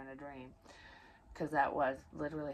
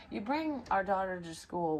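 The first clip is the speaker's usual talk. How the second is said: ordinary delivery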